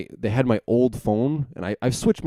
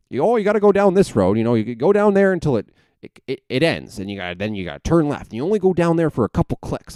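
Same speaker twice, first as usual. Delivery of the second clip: high-pitched imitation of dad; dad giving directions; 7 semitones higher, 3 dB louder than usual. Dad explaining back roads to son, high mimicked voice. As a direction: put on dad's high, insistent direction-giving voice. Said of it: "my dad, uh, tells me".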